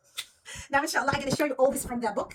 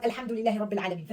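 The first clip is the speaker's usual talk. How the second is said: quick imitation of imam; 3 semitones lower, much faster than usual. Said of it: "Then they start loud".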